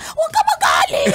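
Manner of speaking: teasing the rider, mock sweet plea; mock high soothing. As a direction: coo it like soothing a cranky kid. Mock advice to grumpy rider.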